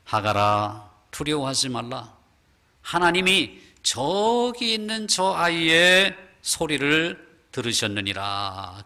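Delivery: slow, drawn-out solemn angel speech; angel's voice. Acted. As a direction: comfort Hagar as God's angel. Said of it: "하갈에게 이렇게 말합니다". (천천히 위로하는 천사의 음성)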